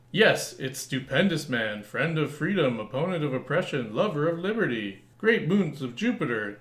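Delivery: lightly voiced heroic announcer; grand superhero announcer. Reading the comic hero's intro, lightly heroic. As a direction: proclaim it like a comic hero.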